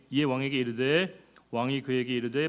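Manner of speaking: usual speaking voice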